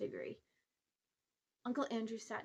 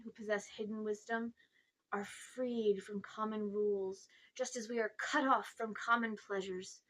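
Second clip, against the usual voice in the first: pompous uncle. Acted. Uncle Andrew lectures the boy.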